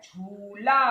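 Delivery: झूला with झू drawn out; long झू, then open ला. Shown as a demonstration. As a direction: hold the ऊ in झूला. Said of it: "तो लंबा है".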